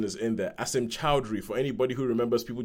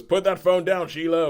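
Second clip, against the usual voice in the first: raised, higher barked order; sharp command; 7 semitones higher, 6 dB louder than usual. Retold or imitated. Time traveller ordering a diner customer to drop her phone, loud sharp command. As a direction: snap the order without looking at her.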